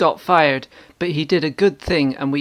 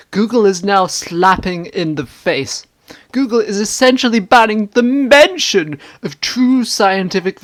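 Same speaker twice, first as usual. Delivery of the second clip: indignant commenter, pitched up; hammy stage actor; 4 semitones higher than usual. Acted. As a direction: overblown outrage, declaiming. Outraged commenter read aloud.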